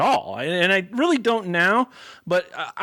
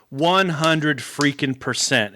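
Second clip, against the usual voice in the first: emphatic agreement; much slower than usual. Retold or imitated. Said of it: "she just started cracking up".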